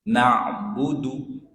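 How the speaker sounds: slow 'Na'budu' ending on a short 'du'; don't hold the last vowel of 'Na'budu'. Shown as a demonstration. Teacher modelling the word, brief du. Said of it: "huruf dalnya pendek".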